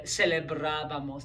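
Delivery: celebrábamos with the BRA syllable stressed; stress on accented A. Shown as a demonstration. Giving students another accent example, stressed á in celebrábamos. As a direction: lean on the á in celebrábamos. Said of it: "always gonna have that accented A".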